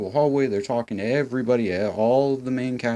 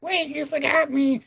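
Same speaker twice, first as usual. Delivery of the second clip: put-on very high, pleading girl voice; a hammed-up teen left behind; whiny mock Emma. Mocking Emma stranded on the dock. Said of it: "Emma's on the dock like".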